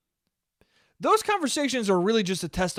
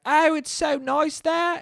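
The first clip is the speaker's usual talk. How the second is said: high, dreamy parent voice; 12 semitones higher, slower than usual. Retold or imitated. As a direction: coo it like a doting storybook parent. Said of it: "they're like".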